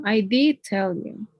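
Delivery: slow, with DID stretched out; stress on DID. Shown as a demonstration. Teacher insisting they already told you, slow stress on did. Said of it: "is, like, emphasizing, I already tell you".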